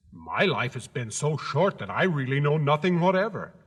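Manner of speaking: scarecrow voice. Acted.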